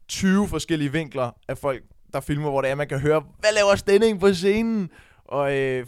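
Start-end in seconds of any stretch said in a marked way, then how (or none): 3.4-4.9 high, loud imitation of astonished friends; crowd shout. Friends filming from the crowd, shouting in disbelief. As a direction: yell it from the audience. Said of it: "folk, der råber".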